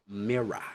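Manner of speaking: "mirror" as "mirra"; British MIRROR. Shown as a demonstration. Teacher shows how it sounds, British "mirror" without final R. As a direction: open uh at the end of "mirror". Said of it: "which sounds as".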